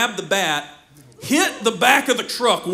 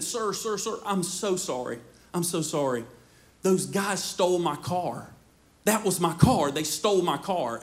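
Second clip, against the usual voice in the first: softer, pleading, lower; soft pleading apology; 3 semitones lower, 6 dB quieter than usual. Retold or imitated. To the man with the shotgun, soft pleading apology.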